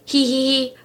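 a light cheeky giggle. A narrator's reading. Elephant hiding after scaring papa, light giggle. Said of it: "Ronald would giggle behind a log".

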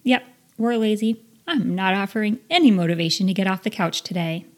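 mock-cheery inner voice giving up; cheerfully compliant inner self. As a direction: play your lazy self happily agreeing. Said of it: "your self is gonna go".

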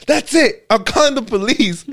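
retold childish threat with a high start; indignant kid threat. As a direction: fire it off like a kid who's had enough. Kid threatens to call police.

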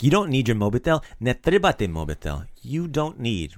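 firm, mildly commanding. Acted. DJ Mo telling distracted Tony about his phone, commanding. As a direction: tell him off with mild authority. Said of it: "Kinda commanding him".

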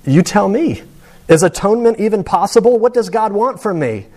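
a hint of a desperate patient pressing for answers; bitter dying man. Dying man demanding answers from chaplain, lightly voiced challenge. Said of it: "And he says".

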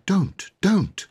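high whispered don't; whispered plea. Acted. Sister whispering to hush crying girl.

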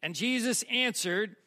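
emphatic, projected Bible reading; dramatic scripture reading. Acted. Preacher reading temptation of Jesus, emphatic. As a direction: read the passage out for the congregation.

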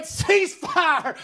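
mild re-enacted call to halt fire; retold battlefield holler. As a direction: call it out like the soldier, half-force. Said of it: "started hollering out".

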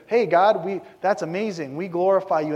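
loud, happy praise of Israelites; mock eager thanks to God; Israelites praising. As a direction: burst out in cheerful praise. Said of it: "and they're".

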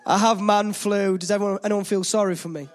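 man flu, hammed-up for pity. Real, not acted.

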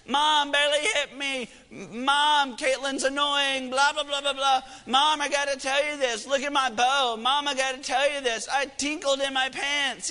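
put-on high, whiny child voices piling on; clamoring kids. Kids all pestering mom while she puts groceries up, high clamoring imitation. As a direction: rattle off high-pitched kid complaints, imitating.

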